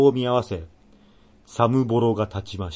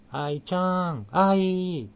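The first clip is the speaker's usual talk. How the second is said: calling the sister; 7 semitones higher, much slower than usual. Retold or imitated. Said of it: "愛ちゃんを呼ぶ時、まずはちゃん付けで".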